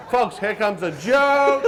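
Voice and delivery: slow cue. Shown as a demonstration. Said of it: "when I tell a joke, you laugh".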